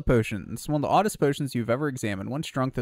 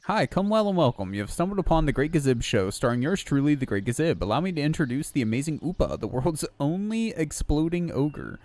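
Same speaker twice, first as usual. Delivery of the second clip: lightly voiced carnival barker; showman voice; 4 semitones higher than usual. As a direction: announce it like a circus host. Reads showman NPC lines.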